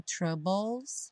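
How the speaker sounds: "troubles" ending in "-bols"; BLE as "bol". Shown as a demonstration. Teacher applying the rule, "troubles" ending "-bols". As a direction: put the vowel before the L in "troubles". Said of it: "é sempre dol".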